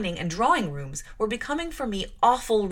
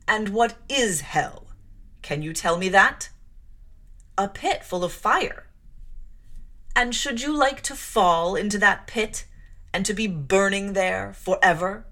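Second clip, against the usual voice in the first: stern preaching; 3 dB louder than usual. Acted. Clergyman threatens child with hell.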